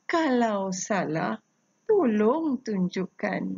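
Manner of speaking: slow, rhythmic chant of each line; pantun recitation. Shown as a demonstration. Teacher showing pupils how to read the pantun, slow recitation. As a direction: recite with even pauses between lines. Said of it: "Baik, cikgu ulang".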